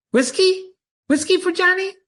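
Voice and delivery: high, strange begging voice of a simple man; the bar's simpleton pleading high for a drink; idiot Johnny Bear. Acted. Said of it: "he's got the idiot smile".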